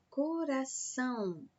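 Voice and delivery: coração with the weight on ção; syllable-by-syllable coração, landing on ção; stress on final syllable. Shown as a demonstration. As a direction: draw out the last syllable of coração. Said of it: "a última sílaba aí é pronunciada com mais força".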